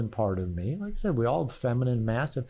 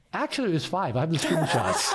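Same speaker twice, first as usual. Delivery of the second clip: laughing reply; 2 semitones higher than usual. Retold or imitated. Teasing reply in retold bedtime talk.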